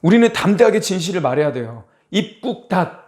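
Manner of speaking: usual speaking voice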